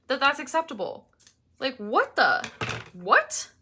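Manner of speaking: loud, fuming rant with high outbursts; livid rant. Retold or imitated. Vlogger retelling what she yelled at the vacuuming neighbors, furious rant. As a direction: tell them off, furious. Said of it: "I was like".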